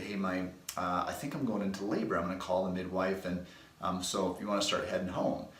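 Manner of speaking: a calm, even report of going into labor; very calmly. Retold or imitated. Wife calmly telling husband on the phone she's in labor, calm. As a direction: keep it easy and unhurried. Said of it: "very calmly".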